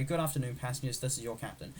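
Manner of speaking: hushed, understated cabin announcement; captain's announcement. Acted. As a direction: play the pilot addressing the cabin, low-key. Pretending to be the captain.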